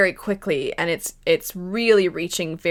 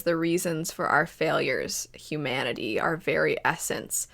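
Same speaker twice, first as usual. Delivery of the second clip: eerie villain quote; 3 semitones lower, 5 dB quieter than usual. Retold or imitated. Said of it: "very eerie".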